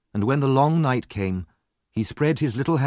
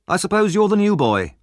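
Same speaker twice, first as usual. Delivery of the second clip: bully voice; 11 semitones higher, 6 dB louder than usual. A narrator's reading. Voice through keyhole.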